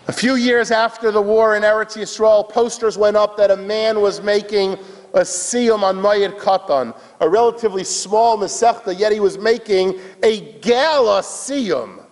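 high, emphatic telling; impassioned storytelling. A narrator's reading. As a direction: launch the tale with sermon fervor. Preacher launches into story.

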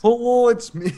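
high-pitched put-on hello; hammy high-voiced hello; mock greeting. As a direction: sing out a silly high greeting. Mock accent greeting, others join in.

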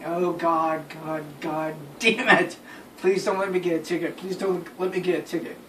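hushed, worried pleading to himself; quiet fretful prayer under the breath; anxious inner plea. Retold or imitated. Driver pulled over, praying quietly to dodge a ticket. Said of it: "I'm thinking".

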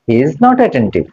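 he is not attentive said slowly, not leaned on; slow and firm on not; stress on not. Shown as a demonstration. Teacher stresses not for the students.

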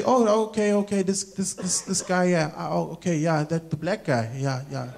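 halting, dwindling recognition; hesitant onlooker. Acted. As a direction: puzzle it out, fading as you go. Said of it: "they'll just say".

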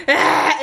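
short mock cry from the gut; imitated baby scream. Mom shows how baby screams in bouncer, mock gutted cry. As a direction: briefly mimic a screaming baby. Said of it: "It's like a deep gutted cry".

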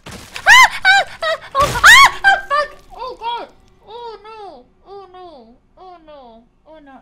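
scream, then wilt; screams fading to despair. Real, not acted. Streamer watching Lara die, screaming then deflating.

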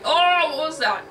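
high, loud yelp, then easing; mildly hammed-up frightened shriek; startled shriek. A narrator's reading. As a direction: shriek the first word in alarm. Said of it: "Thor shrieked".

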